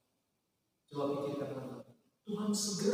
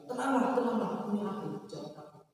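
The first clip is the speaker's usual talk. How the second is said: gentle Jesus; 4 semitones higher than usual. Acted. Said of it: "Kita bayangkan aja ya".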